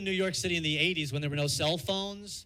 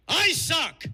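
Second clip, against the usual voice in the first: a lightly voiced vampire, higher and louder; DeSantis as a vampire; 8 semitones higher, 5 dB louder than usual. Comic impersonating governor as vampire, mock vampire voice. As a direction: hiss it like a hammed-up vampire. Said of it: "this is Ron DeSantis as a vampire".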